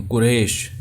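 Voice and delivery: قریش said short as "quresh"; قریش ending "-esh", no glide; common mispronunciation. Shown as a demonstration. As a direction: say قریش Urdu-style with a plain e. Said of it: "جو کہ بہت بڑی غلطی ہے".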